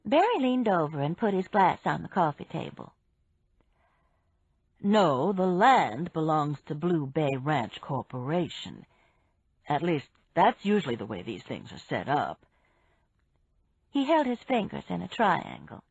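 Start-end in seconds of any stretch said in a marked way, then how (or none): 4.8-12.4 lightly voiced man. Barry voiced by narrator.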